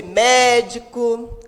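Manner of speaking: "médico" with a strong, drawn mé; stress on MÉ. Shown as a demonstration. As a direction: lean on the first syllable of "médico". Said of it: "palavras em que a sílaba tônica". ("médico" com o mé forte)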